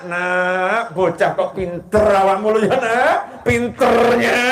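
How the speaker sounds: grandma to a naughty grandchild, mock angry; grandma scolding a child. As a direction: tell off the naughty child while calling him clever. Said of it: "Marahnya sama anak".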